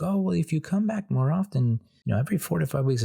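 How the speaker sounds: high mock front desk voice; imitating the receptionist. Receptionist repeating her line, high imitation. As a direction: play her sales pitch high. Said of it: "she's like".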